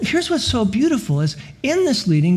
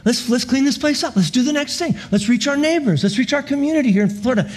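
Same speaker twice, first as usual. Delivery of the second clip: eager, higher voice, fast at the end; joyful church; 5 semitones higher than usual. Retold or imitated. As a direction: play the church jumping to work. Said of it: "with just great joy".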